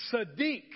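Sadiq said as sah-DEEK; saying Sadiq. Shown as a demonstration. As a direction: say Sadiq clearly, stress on the second syllable. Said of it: "Let's all say that together".

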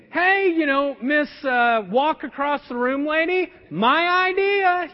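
half-joking huff of annoyance at being upstaged; mock irritation. His irritated thought toward wife.

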